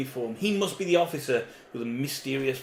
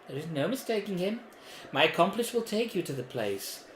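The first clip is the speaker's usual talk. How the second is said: mysterious voice; 6 semitones higher than usual. Acted. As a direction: purr it as the hidden patron. The voice speaks again.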